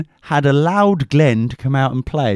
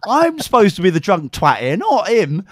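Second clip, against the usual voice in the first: high mock yell, laughing through it; half-laughing mock rage; retold outburst; 6 semitones higher than usual. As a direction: fling it at her in mock fury. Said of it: "I was like".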